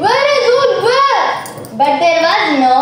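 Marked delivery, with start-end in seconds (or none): 0.0-1.2 high, acted demand; urgent questioning. Farmers asking the boy about the wolf, urgent questioning. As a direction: ask urgently, pitched up.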